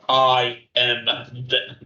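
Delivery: low, gravelly start, breaking off. Acted. Hero in Ghost Rider form declares himself, gravelly voice. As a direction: intone it in a gravelly voice. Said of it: "in a gravelly voice".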